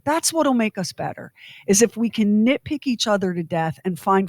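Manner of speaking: heavy mock-sincere sarcasm; sarcastic. Real, not acted. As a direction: pretend to praise what you despise. Mock praise of judgment and hate.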